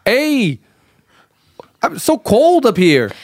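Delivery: drawn-out, put-on Canadian accent; Canadian accent attempt. Student starts mountaintop scene, slow Canadian accent. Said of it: "I just really need that accent".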